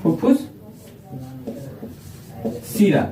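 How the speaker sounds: word, long pause, word. Real, not acted. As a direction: dictate it piece by piece as you write. Dictates term while writing it.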